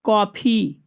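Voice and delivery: कॉफ़ी with an open vowel between आ and ओ. Shown as a demonstration. Teacher showing the class how to say कॉफ़ी. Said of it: "उन दोनों के बीच वाले को बोलते हैं".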